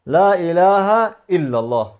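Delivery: slow, each word of لا اله الا الله set apart; teacher repeats لا اله الا الله slowly so learners catch the pronunciation; slow careful recitation. Shown as a demonstration. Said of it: "تلفظ این است که".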